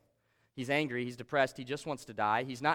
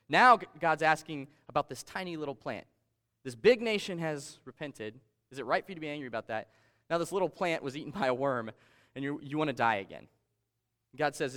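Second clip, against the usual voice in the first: emphatic Bible reading, louder at first; scripture reading; 4 dB louder than usual. Acted. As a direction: proclaim the verses to the congregation. Pastor reads Jonah's scripture aloud.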